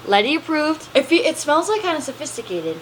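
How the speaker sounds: playful put-on Australian accent. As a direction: gush in a light Australian accent. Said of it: "I need to relax on the voices".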